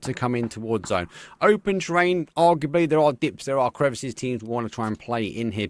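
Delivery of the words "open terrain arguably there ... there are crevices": loud, high setup call; esports caster. Real, not acted. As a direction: set the scene with energy. Scene description.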